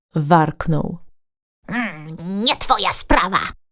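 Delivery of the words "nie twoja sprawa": taunting, provoking, cheeky tone. The raccoon answers the deer who confronted him: provocative reply. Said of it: "odparł zaczepnie szop".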